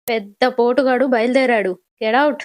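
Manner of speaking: loud, scornful dismissal; angry shout. Acted. Chakradhar throws Akshay out. (కోపంగా గట్టిగా అరుస్తూ)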